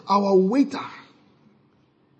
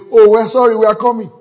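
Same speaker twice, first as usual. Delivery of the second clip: apologetic servers; 7 semitones higher, 6 dB louder than usual. Retold or imitated. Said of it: "He said, that's how they will say".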